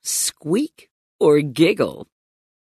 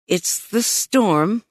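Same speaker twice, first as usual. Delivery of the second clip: calm reassuring; 3 semitones higher, slower than usual. Acted. Mom calms the kids.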